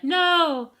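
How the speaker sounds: high, loud mock shriek; hammed-up high shout of a frantic mother. Freya shouting during fight.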